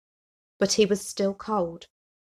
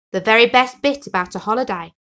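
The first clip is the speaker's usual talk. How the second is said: smiling reply; 3 semitones higher, 7 dB louder than usual. Acted. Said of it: "smiled Henry".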